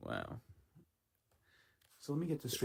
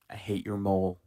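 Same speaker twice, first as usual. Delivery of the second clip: mock outburst; 11 dB louder than usual. Real, not acted. Shouting at the video.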